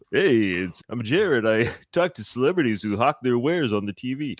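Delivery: lightly imitating a professional radio host; a hint of a big broadcaster voice; mock deep radio voice. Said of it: "He's got that really deep".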